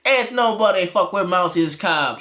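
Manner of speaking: a light mock Jamaican accent; playful Jamaican accent impression. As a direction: put on a hint of a Jamaican accent. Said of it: "your Jamaican accent is so much better".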